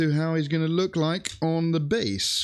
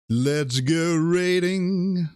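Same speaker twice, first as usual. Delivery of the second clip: drawn-out hype call; 4 semitones higher, much slower than usual. Real, not acted. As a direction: stretch it out like an announcer. Hyping up the raid.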